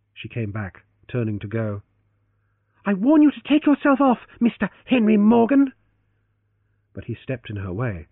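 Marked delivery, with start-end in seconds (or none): 2.8-5.7 stern warning. Acted. Leoncia orders him off.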